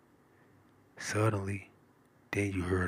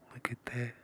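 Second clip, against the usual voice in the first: whisper in left ear; 3 semitones higher, 6 dB quieter than usual. Real, not acted. Whispered aside.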